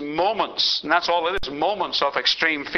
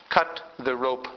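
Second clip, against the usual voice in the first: deep voice of God; 2 semitones lower, 4 dB quieter than usual. Retold or imitated. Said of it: "big, deep voice coming out of the sky".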